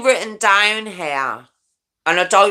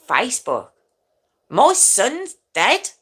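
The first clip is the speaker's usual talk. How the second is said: incredulous retort; 5 semitones higher than usual. Retold or imitated. Mother's retort retold in disbelief.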